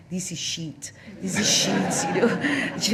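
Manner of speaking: mock French accent, "shit" as "sheet"; retold complaint in a French accent; French financier. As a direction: lightly imitate a Frenchman's English. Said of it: "it was a French financier".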